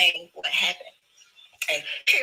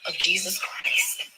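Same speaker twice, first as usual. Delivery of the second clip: mock rebuke; slower than usual. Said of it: "called him a demon".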